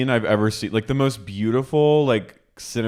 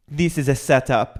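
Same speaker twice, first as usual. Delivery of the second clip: mock outraged realization; 5 semitones higher than usual. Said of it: "this is when I went".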